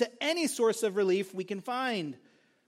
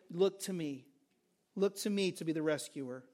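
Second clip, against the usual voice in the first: softer plea; 4 semitones lower, 5 dB quieter than usual. Acted. God's call after loud list.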